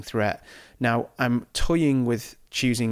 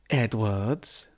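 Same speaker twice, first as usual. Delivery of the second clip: put-on Welsh accent on Edwards. Shown as a demonstration. Gamer calling out his Welsh midfielder, mock Welsh accent. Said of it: "That's my Welsh accent".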